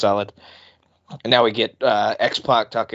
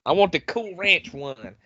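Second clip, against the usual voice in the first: put-on southern accent; 6 semitones higher, slower than usual. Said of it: "southern accent".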